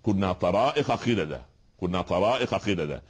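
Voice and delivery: طرائق stressed in the quoted verse; quoting the verse. Shown as a demonstration. Teacher citing a verse to prove طرائق. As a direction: recite it with weight on طرائق. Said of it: "لا، هي طرائق".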